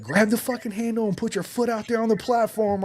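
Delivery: high, loud shouted order over the wind. Retold or imitated. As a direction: bark the instruction loudly. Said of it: "He's like".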